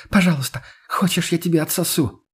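high, desperate pleading; begging. A narrator's reading. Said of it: "продолжала умолять девушка". (умоляющий высокий голос)

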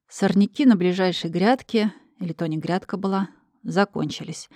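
ordinary delivery

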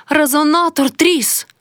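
high, frightened cry that the resonator cracked; alarmed cry. Acted. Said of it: "крикнула Гануся".

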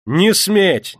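high, loud, НЕ stressed and falling; desperate cry. A narrator's reading. Yulka screams at the crowd, desperate. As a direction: forbid them in panic. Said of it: "закричала она".

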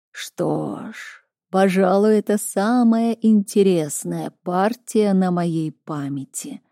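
slow, otherworldly oracle voice; drawn-out, distant seer speaking; prophetic trance voice. Acted. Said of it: "раздался голос Оракула".

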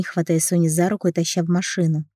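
ordinary delivery, nothing marked

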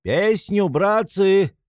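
high loud call; rowdy shout. A narrator's reading. A reveller on the cart calls for a song, high loud shout. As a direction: whip up the party. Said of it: "кричит кто-то с телеги".

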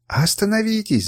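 high pleading cry to stop; desperate shout. A narrator's reading. Woman begging two fighters to stop, high cry. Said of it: "закричала Сура".

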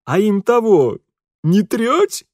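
high, loud village mockery; cheeky Ukrainian servant. A narrator's reading. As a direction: jab at him with a snicker. Servant continues mocking. (задиристый говор лакея)

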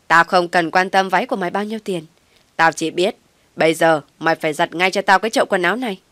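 loud, harsh command, fast at the end; angry order. Acted. Mother-in-law orders daughter-in-law to do laundry, loud angry. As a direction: bark the order down at her.

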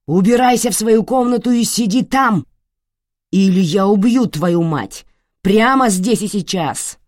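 loud, high, murderous bellow; roar. Acted. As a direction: roar the threat. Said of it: "проревел Абео".

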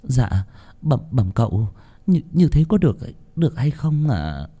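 unsure and deferential; anxious servant. Acted. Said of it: "Chị Lý vội nói". (giọng người hầu lo lắng, ấp úng)

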